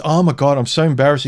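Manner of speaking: embarrassed escort. Acted. Escort apologizes to client for farting again, embarrassed.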